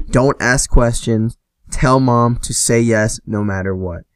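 slow, emphatic, spaced-out order; lightly acted urgent instruction, word by word; insistent instruction. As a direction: spell out the instruction slowly and firmly. Acting out urgent text to sister.

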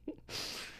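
cheek pop sound; popping cheek. Real, not acted. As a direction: pop your cheek like a cork. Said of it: "you pop your cheek".

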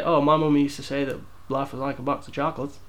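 attempted movie-character impression, lightly done; Forrest Gump. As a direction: have a rough go at a simple Southern film hero. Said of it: "Was that a good Forrest Gump impression?".

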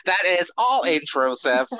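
stiff alien pronouncement, repeated; Coneheads voice. Acted. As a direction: announce it like a formal alien. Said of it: "No more alien voice".

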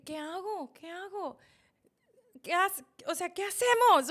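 high-pitched, building to a loud cry; retold panic. Wife asks her mother-in-law what to do, rising panic. Retells panic as husband's heart stops.

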